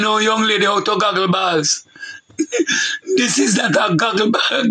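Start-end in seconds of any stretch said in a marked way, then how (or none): 2.4-3.1 a burst of high-pitched laughter. Real, not acted. Laughs at own joke. 3.2-4.7 words broken by laughter; laughing through words. Real, not acted. Laughing while joking.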